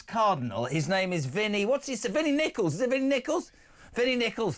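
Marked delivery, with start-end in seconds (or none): 1.7-4.6 higher-pitched, lightly put-on Scouse voice; Lily Savage. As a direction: slip into a hint of Scouse drag act. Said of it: "I just launched into Lily Savage".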